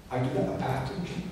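whispered echo of "I do that, a path to Him". Acted. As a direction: drop to a whisper on the repeat, "I do that" breathed. Repeats phrase, second take whispered.

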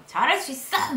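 root for yourself like a sports fan; stadium-style cheer. Acted. Worker psyching herself up before work, cheering loudly. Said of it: "야구장에서 소리 지르는 것처럼".

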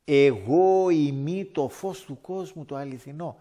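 loud, very slow proclamation; proclaiming Christ's words. Retold or imitated. Preacher quoting Christ to the congregation, loud and slow. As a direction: boom it out like scripture from the pulpit. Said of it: "Ο Χριστός όμως είπε".

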